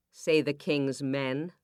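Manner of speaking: usual speaking voice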